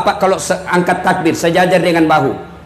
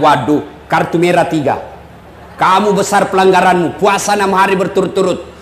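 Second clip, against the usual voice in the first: much lower, calm fatherly voice as the Prophet; 6 semitones lower than usual. Retold or imitated. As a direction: drop low and speak as a gentle wise elder. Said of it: "Kata Nabi".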